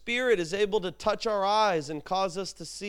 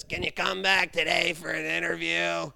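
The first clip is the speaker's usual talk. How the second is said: manager Glenn voice; 3 semitones lower than usual. Retold or imitated. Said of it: "and Glenn says".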